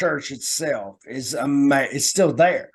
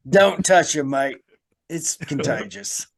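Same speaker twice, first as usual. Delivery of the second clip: mock Australian wildlife presenter; Steve Irwin; 3 dB louder than usual. Host warns about the ghost, mock Australian presenter voice. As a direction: warn them in a put-on Australian accent. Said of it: "we went Steve Irwin".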